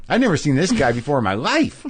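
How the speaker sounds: imitating a baffled viewer; mock incredulous stranger. People seeing his comedy out there, mock incredulous. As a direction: protest that he is a total unknown. Voicing strangers who don't know him.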